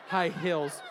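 put-on a touch of Southern accent with a laugh; Southern twang. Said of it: "a little southern twang in there".

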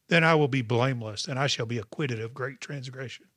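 scripture reading. Acted. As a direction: read the psalm like a proclamation. Reads scripture aloud.

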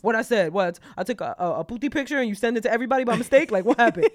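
loud, rushed guilty questions; panicked questioning. Pretend. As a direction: blurt out nervous guesses fast. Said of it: "but I'm like".

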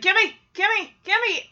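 high, fairly loud gimme chant; mock grabby yell. Danny waking to Kimmy's unicycle, high mock yell. Danny wakes, retold again.

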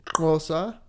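"Xhosa" with a click at the start; native-style click on "Xhosa"; correct pronunciation. Shown as a demonstration. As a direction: say "Xhosa" with an opening click in place of the X. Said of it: "how you're actually pronouncing the language".

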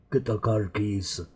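slow, lightly voiced Connery; a hint of Scottish Connery drawl; Sean Connery impression. Trying a Connery voice for a friend, slow and slight. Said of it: "I can't do a Sean Connery".

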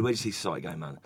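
a hint of a spaced-out late-night philosopher; stoner guy quote. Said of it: "he said".

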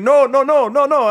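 high, loud, repeated mock protest; urgent correcting. Clerk to departing customer through glass, urgent correcting. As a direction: imitate someone frantically waving off a mistake.

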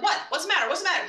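mock puzzled questioning of car. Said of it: "And I'm like".

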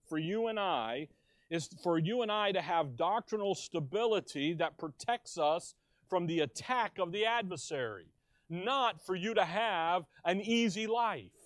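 slow, deliberate and weighty; slow emphasis. Shown as a demonstration. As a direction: lean on each phrase slowly so it sinks in. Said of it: "I'm going slow on purpose to stress it".

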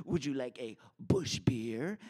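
slick whispered offer. Retold or imitated. Teen boy whispering a beer offer to the ladies. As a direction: lean in and whisper it smoothly.

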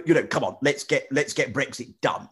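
a light hint of Boris Johnson's bluster; lightly voiced Boris rallying the crowd; mock Boris slogan, barely changed from own voice; Boris Johnson impression. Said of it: "a Boris Johnson impression".

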